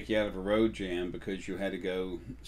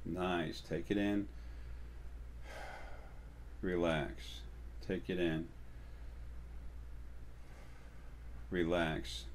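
soft, unhurried cues with long pauses; breathing guidance; 3 semitones lower, 8 dB quieter, slower than usual. Shown as a demonstration. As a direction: gently talk them through each breath. Guides a relaxing breathing exercise.

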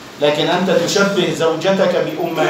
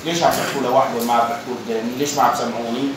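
fast, low, suspicious grumbling, sinking softer at the end; imitating a suspicious paranoid man; 3 semitones lower, 4 dB quieter, faster than usual. The left-out third man voicing his paranoia, fast and muttered. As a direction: mutter it like someone sure they're plotting against him. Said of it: "هذا بقلبه بقول".

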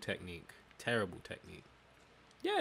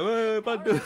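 mock yell; 12 semitones higher, 12 dB louder, slower than usual. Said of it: "We were like".

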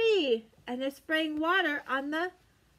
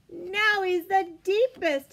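slow, louder big reveal; dramatic deepest; 2 semitones higher, 4 dB louder, slower than usual. Acted. Reading to children, slow dramatic reveal. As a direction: draw out the deepest for the kids. Building comparison game with children.

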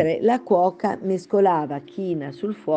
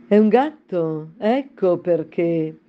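disdainful duchess; 4 dB louder, slower than usual. Acted. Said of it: "senza neppure degnare Alice di uno sguardo".

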